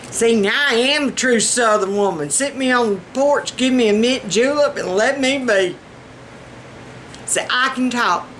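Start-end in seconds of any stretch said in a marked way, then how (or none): 0.1-5.7 hammed-up rich Southern lady. Shown as a demonstration. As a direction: play the rich Southern belle. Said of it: "that was a little bit of rich Southern".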